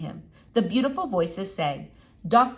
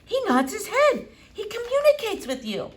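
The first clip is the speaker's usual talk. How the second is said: much higher, laughing; delighted laugh; 14 semitones higher than usual. A narrator's reading. Doctor amazed the squirrel communicates, laughing. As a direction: chuckle in wonder.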